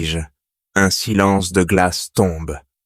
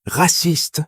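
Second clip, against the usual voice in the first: put-on high shout of a kid at the back of the class; a pupil calling out an accusation across the classroom, shouting high; kid's shout; 10 semitones higher than usual. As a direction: hurl the word from the back row. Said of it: "Un gamin au fond crie".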